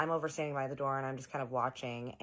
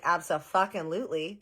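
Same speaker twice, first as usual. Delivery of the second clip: emphatic yes; 5 semitones higher, 8 dB louder than usual. Retold or imitated. Third eager yes, cigar offer.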